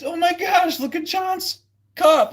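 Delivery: very high, loud squeal, slowing at the end; amazed onlooker. Retold or imitated. Distracted players gawking, very high and loud. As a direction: gasp it like a stunned fan. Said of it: "They'd be like".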